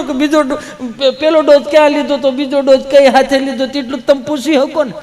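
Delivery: high, sobbing-edged praise; mock tearful gushing. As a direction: gush through fake tears. Man gushing, voice high, choked. (ગળગળા થઈ ઊંચા સૂરે વખાણ)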